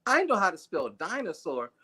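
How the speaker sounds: a lightly voiced bragging little girl, starting high; mock the kid showing off. Man imitates a girl bragging to her mom, mild girl voice. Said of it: "She goes".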